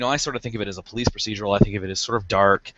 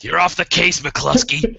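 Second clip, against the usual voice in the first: raised, barking desk sergeant; gruff barking police captain; 7 semitones higher, 3 dB louder, slower than usual. Retold or imitated. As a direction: bark it like an angry cop boss. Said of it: "like, yelling".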